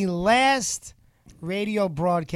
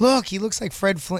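ordinary talk, nothing marked

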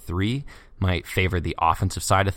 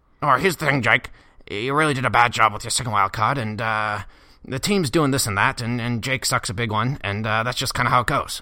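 raspy put-on voice rasped from the throat; 3 semitones higher than usual. Answering a listener's request by attempting a Sean Dyche voice. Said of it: "it'd be something like".

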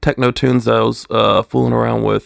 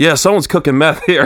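put-on casual, upbeat, enthusiastic tone, higher; 4 semitones higher, 4 dB louder than usual. Retelling what Ruben's dad said about the smell: imitating Ruben's dad, casually enthusiastic. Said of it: "he said it with the same enthusiasm".

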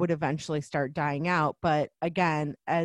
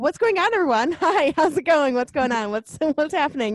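acted, very nervous, high, raised voice; 10 semitones higher, 7 dB louder than usual. Retelling a Brooklyn Nine-Nine scene where Debbie stole cocaine: imitating Debbie acting nervous. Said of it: "she's really, really nervous".

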